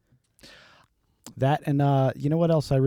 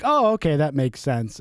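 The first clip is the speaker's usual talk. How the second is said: put-on young cop voice; 4 semitones higher, 4 dB louder than usual. Young cop quoted in story.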